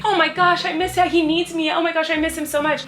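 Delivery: high, hammed-up pining; mock distressed Belle. Belle seeing her dad in the mirror, mock distressed.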